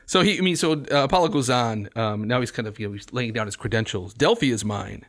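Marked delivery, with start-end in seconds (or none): 4.1-5.1 proud, declaiming verse reading; reading a poem aloud. Acted. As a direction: announce his credentials. Reads Apollo's boasts aloud.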